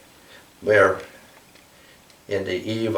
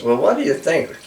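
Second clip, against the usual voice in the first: higher questioning bird voice; mother eagle voice; 6 semitones higher than usual. Acted. Mother Eagle presses the stag, higher. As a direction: ask in a lifted bird voice.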